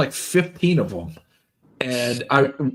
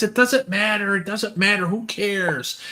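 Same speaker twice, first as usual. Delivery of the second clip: careless brush-off; 5 semitones higher than usual. Retold or imitated. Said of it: "he goes".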